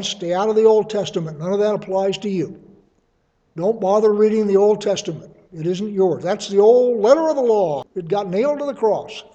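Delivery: put-on proper Southern accent, laid on loudly. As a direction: mimic a Sunday preacher with a Southern accent. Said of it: "in a proper Southern accent".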